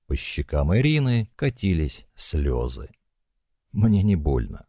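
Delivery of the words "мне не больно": usual speaking voice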